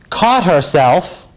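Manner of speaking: "caught herself" slow, each word weighted; drawn-out emphasis. Retold or imitated. Lawyer quoting second detective to jury, "caught herself" slow and deliberate. Quoting testimony, dwelling on key phrase.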